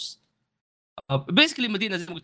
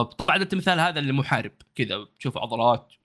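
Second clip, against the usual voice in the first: ordinary talk, nothing marked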